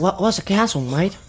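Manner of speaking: mock American accent, sounding Australian; badly faked American accent; attempted American accent. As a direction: put on a shaky American tourist accent. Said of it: "the American accent yesterday when you were asking".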